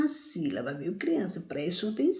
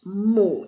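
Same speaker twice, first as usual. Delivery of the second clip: "Mo" said alone, louder; strong syllable alone; 5 dB louder than usual. Shown as a demonstration. Teacher answering her question on the strongest syllable, "Mo" stressed. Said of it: "Qual a sílaba mais forte?".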